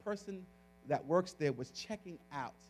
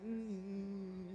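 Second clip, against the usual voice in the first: drawn-out, soft reluctant "mm"; mock-whine through closed lips; hesitant little moan; reluctant hum; 3 semitones higher, 9 dB quieter than usual. Reluctant answer to Holy Spirit.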